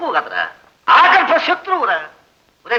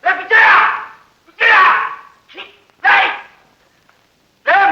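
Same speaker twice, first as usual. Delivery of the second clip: shouting for help; 5 semitones higher than usual. Acted. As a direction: yell for the servant to come. Locked in, shouting for servant. (తాళం వేసిన గదిలోంచి అరుపు)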